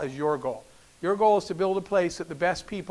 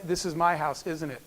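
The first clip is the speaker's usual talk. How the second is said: soft, low, retold wonder; gently imitating a moved mother; moved realisation; 3 semitones lower, 5 dB quieter than usual. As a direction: let it fall away to a hushed question. Mother's tearful realisation, retold softly.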